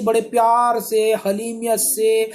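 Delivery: drawn-out, mock-loving emphasis; mock-sweet. Preacher mimicking believers' loving barbs, mock-sweet. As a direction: stretch it out with feigned gentleness.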